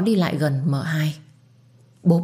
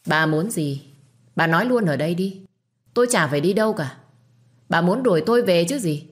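defiant sneer. Acted. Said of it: "cười nhếch mép".

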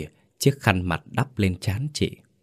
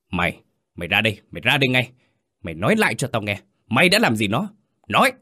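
fast, angry demand; brother-in-law roaring at the husband; 4 semitones higher, faster than usual. Acted. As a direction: grab him and demand the truth. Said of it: "Anh gầm lên".

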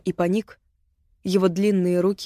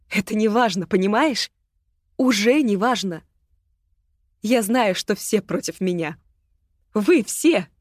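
bitter outburst; 3 semitones higher than usual. Acted. Агата bitter to Ирма.

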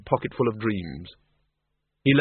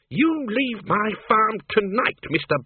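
slow, high, angry order; growled; 9 semitones higher, slower than usual. Acted. Miss Flitworth throws Bill off her farm, angry growl. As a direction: order him off the farm in fury. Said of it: "she growled".

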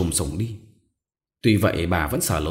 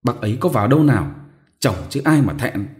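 fast, louder grumble; grumbling; 3 semitones higher, 4 dB louder than usual. Acted. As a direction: brush it off with a quick grumble. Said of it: "càu nhau". (càu nhàu nhanh, to tiếng)

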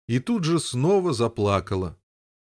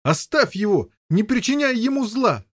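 high, loud pleading shout; yell; 10 semitones higher, 3 dB louder than usual. Acted. Boy shouting at brother to spare it. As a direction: beg him loudly to stop. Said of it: "завопил Гавейн".

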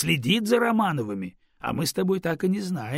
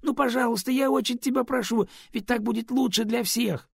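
higher, begging please; pleading; 9 semitones higher, 4 dB louder than usual. Acted. Raven keeps begging the Stone, higher and pleading. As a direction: plead hard for the favour. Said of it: "взмолился Ворон".

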